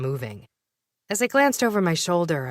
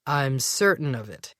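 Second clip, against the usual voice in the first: predatory tone. Acted. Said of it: "Marcus's voice took on a predatory tone".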